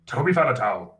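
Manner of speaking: rolling Welsh accent. Shown as a demonstration. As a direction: roll the names out in Welsh. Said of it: "my other Welsh ones are".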